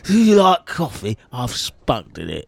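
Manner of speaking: a hint of slurred creepy server; sleazy barista offering coffee; lightly slurred barista. Shown as a demonstration. Barista offering coffee in a light slur. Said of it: "funny voices ... slur".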